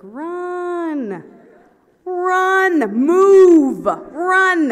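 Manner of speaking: high, loud yelled commands. Retold or imitated. Teammates yelling at her to run, loud and high. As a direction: yell run at them, growing. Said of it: "it's just getting louder".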